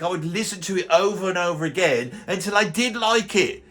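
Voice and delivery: put-on indignant old-timer ranting about modern music; grumpy old man rant. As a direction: rant like a cranky pensioner who hates the kids today. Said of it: "I'm about to launch into the rant".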